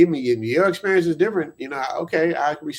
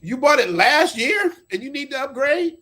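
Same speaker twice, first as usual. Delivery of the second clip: high, loud, drawn-out disbelief; stretched-out, incredulous challenge; 7 semitones higher, 5 dB louder than usual. Real, not acted. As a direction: question him slowly in rising disbelief. Challenges friend's reason for upgrade.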